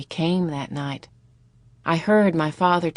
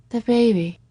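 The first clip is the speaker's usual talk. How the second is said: odd, silly voice; 5 semitones higher than usual. A narrator's reading. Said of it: "Her voice was odd and silly".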